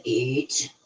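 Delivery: low, soft imitation of a ghostly reply; scary spirit voice. Shown as a demonstration. Confirming to the listener how it sounded, in a scary low voice. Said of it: "The way you said it sounds scary".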